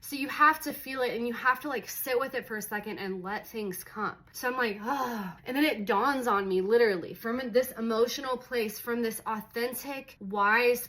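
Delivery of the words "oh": re-enacted sigh of release; sighed "oh", imitating relief; acted sigh. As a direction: let out an "oh" as a sigh. Retelling her moment of letting go.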